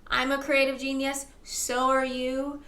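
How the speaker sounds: ordinary talk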